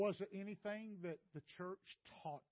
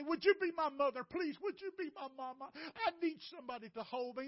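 retold pleading; 8 semitones higher, 5 dB louder than usual. Boy pleads for a mother.

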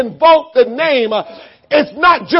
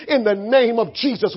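low and hushed, much softer; quiet whispered-style demo prayer; 5 semitones lower, 8 dB quieter than usual. Shown as a demonstration. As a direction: murmur it gently. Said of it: "just say".

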